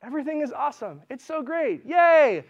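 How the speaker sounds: high, bright mock-chirpy cheer; fake cheer. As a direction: gush like everything's fine. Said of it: "I kinda picture these as people".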